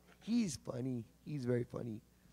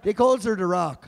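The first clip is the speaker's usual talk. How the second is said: Newfoundland accent; 6 dB louder than usual. Shown as a demonstration.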